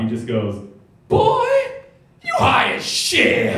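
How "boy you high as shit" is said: very high, slow shouted announcement; loud call-out. Retold or imitated. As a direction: bellow it for the whole store. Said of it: "and then super loud".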